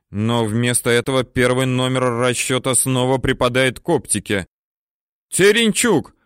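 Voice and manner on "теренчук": much higher, louder yell; angry shout. A narrator's reading. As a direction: bawl at the gunner. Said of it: "кричит взводный".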